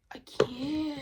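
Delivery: loud, high burst of exasperation; exasperated outburst. Real, not acted. Venting at the people who let her down, exasperated outburst.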